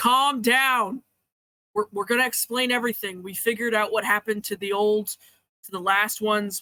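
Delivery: big orc-like monster voice. Brasco answers someone calling out from the group, in his big orc voice. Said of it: "uses his big old orc voice and goes".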